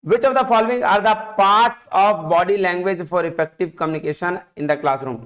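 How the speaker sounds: reading the question out slowly, word by word. Shown as a demonstration. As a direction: read it out slowly for the class. (धीरे-धीरे प्रश्न पढ़ना)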